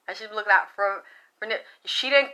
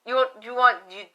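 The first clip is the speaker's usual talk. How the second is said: loud startled what; shouting back in disbelief; retold shocked shout; 6 dB louder than usual. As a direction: blurt it out, caught off guard. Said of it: "I said".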